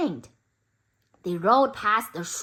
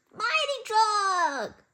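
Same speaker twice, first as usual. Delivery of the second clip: dramatic reveal; 10 semitones higher, slower than usual. A narrator's reading.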